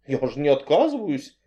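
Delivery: a touch of fright; frightened. Acted. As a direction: say it lightly scared. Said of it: "испугалась я".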